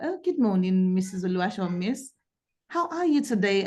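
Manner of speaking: usual speaking voice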